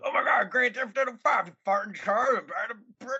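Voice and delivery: squealing fanboy parody; mock hyped fan. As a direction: parody the breathless hype. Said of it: "It's like".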